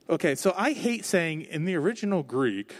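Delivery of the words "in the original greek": mock smart-sounding. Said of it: "so we sound really smart".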